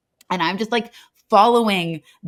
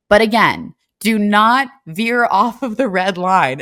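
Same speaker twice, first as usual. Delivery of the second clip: stern guard warning; 4 dB louder than usual. Retold or imitated. Guard repeats his warning.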